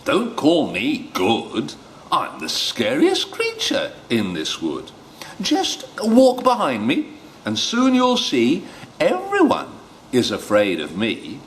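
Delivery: mouse boasting. Acted.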